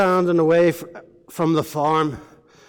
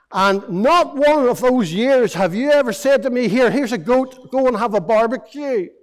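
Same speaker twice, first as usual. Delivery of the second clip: aggrieved complaint; 3 semitones higher, 4 dB louder than usual. Acted. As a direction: lay out the years of hard work, bitter. Elder brother complains to father.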